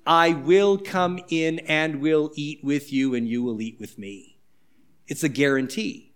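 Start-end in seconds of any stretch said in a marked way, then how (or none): 0.1-4.4 tender promise. Acted. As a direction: speak it gently like a vow of welcome. Jesus' promise, slow soft.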